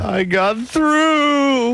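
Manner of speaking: high, drawn-out mock triumph; triumphant. Cohost mimicking a caller who reached the show, triumphant. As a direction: stretch it into a long, high cheer. Caller-style cheer about getting through.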